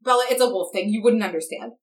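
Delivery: lightly acted condescending brush-off; dismissive. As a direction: wave the listener off with mild disdain. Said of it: "really dismissive way where he's like".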